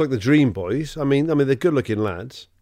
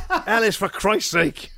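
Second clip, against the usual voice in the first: landlord pleading; 9 semitones higher than usual. Pretend.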